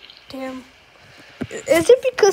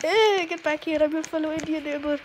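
quick put-on Indian accent, trailing softer; 7 dB quieter than usual. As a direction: rattle it off in a mock Indian accent. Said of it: "I'm gonna act as Indian".

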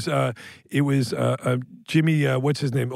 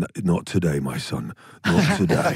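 London football fan; 11 semitones lower than usual. Retold or imitated. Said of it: "watching Tottenham Arsenal".

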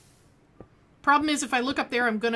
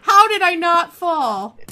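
slower, loud wondering repeat; slow amazed; 7 semitones higher, 12 dB louder, slower than usual. Real, not acted. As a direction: stretch it out in wonder.

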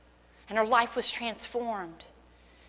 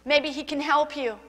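desperate father; 3 semitones higher than usual. Retold or imitated. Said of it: "the father in desperation says".

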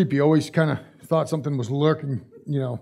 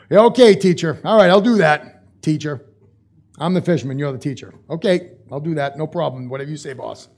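sarcastic. Retold or imitated. Preacher voicing Peter brushing off Jesus, mock sarcastic. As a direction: roll your eyes and say "whatever you say, boss". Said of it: "something that we would totally say from this part of the world".

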